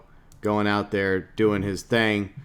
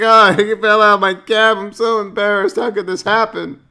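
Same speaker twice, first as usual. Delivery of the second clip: high, laughing, mock-embarrassed voice; a high squeaky put-on voice, laughing at himself; embarrassed Tommy; 10 semitones higher, 5 dB louder than usual. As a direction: ham up a flustered, ashamed cabbie. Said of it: "He's like".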